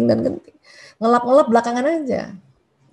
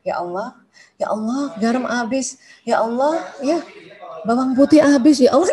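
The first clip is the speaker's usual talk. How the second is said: casual prayer complaint. Retold or imitated. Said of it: "kan kita begitu ya".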